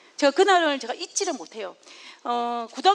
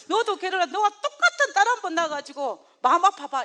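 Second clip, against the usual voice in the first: imitating crying mother; 4 semitones higher than usual. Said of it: "이러시면서 막 우시는 거예요".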